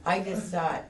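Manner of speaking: high, loud, laughing through the panic; nervous laughing recall; laughing tensely. Real, not acted. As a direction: laugh while telling of the panic. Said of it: "I'm freaking out here".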